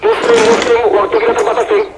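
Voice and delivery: high call across the site. Real, not acted. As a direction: call his name out. Calling a teammate during rescue.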